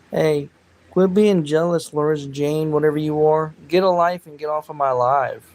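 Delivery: loud, scolding brush-off at a hater; angry callout. Real, not acted. Streamer scolding a jealous commenter, loudly angry. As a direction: tell the troll off, loud.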